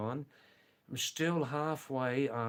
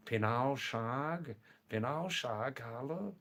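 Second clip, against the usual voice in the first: lightly lilting Kumaoni demonstration; Kumaoni dialect; 2 semitones higher than usual. Shown as a demonstration. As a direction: show off friendly Kumaoni small talk. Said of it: "this is Kumaoni dialect, right?".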